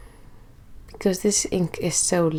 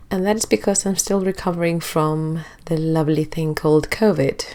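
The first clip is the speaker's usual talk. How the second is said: sarcastic. Real, not acted. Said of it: "I'm being sarcastic".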